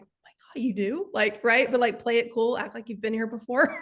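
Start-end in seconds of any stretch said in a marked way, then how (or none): 0.0-1.1 inner surprise. Retold or imitated. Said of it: "In my mind, I'm like".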